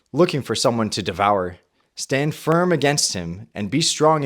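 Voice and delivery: measured, earnest Bible reading; solemn reading of First Peter; scripture reading. Acted. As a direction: read the passage like from the pulpit. Reads scripture aloud.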